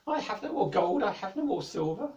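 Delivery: high, loud, wailing king's voice; king crying out in a nightmare. Acted. King in his sleep, distressed and high-pitched. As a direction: moan it out like a king in a bad dream. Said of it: "He was saying".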